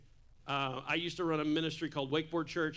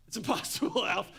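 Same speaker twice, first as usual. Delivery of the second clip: laughing quote; 3 semitones higher than usual. Retold or imitated. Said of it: "he smirks".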